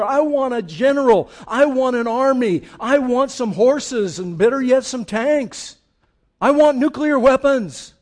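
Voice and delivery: loud, insistent acted demand. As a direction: demand it forcefully, building on each item. Voicing a demand for military might.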